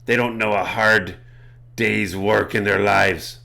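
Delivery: lightly voiced pirate cat creature; pirate accent. Cat creature dismissing the others to the party, light pirate accent. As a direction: put on a slight pirate accent. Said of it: "I've got a pirate accent now".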